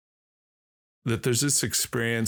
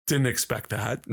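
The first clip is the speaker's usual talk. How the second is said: laughing. Retold or imitated. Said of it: "And I'm like".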